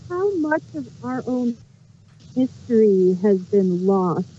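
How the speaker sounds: sounds muffled, like into a pillow; muffled, like talking into a pillow. Real, not acted. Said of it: "but you're muffled".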